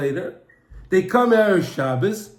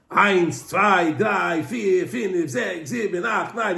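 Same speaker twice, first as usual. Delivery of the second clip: counting in an even, repeated lilt; rhythmic counting; 3 semitones lower, slower than usual. Acted. Two men tallying money at the table, rhythmic counting. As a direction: count off steadily, each number falling away.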